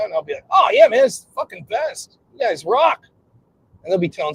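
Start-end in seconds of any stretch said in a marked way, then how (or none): 0.5-3.1 high, enthusiastic fan praise; acted gushing. Newcomer praising the founding fathers, acted excited gushing. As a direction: gush at your heroes.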